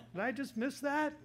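high, loud squeaky disbelief; shocked disbelief. Retold or imitated. Son hearing his dad want faith, squeaking in disbelief. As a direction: squeal it like you can't believe your ears. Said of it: "And I was like".

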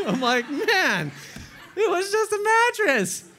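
high, loud laughing retelling; cracking up while telling the story. Real, not acted.

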